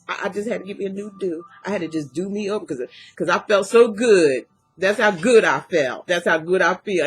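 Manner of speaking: talking with a retainer in; wearing a retainer. Real, not acted. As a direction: speak around a dental retainer. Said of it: "I even put my, my retainer in".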